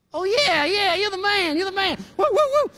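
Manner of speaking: high, loud, gushing praise; hammed-up fawning over the boss; mock cheering.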